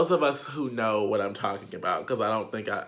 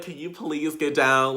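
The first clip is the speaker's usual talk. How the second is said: laughing request; 3 semitones higher than usual. Retold or imitated. Asking man to get down.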